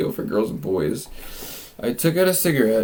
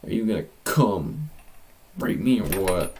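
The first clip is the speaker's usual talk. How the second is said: "come" left hanging before a pause; puzzled reread with pauses; 3 semitones lower than usual. Acted. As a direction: break the question in two after "come". Rereads line, breaking it up.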